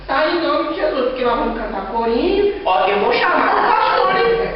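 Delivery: mock threat with a laugh; mock threatening. Pastor mocks someone threatening the demon, laughing. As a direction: tease like a bluffing child. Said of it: "uma pessoa falou assim".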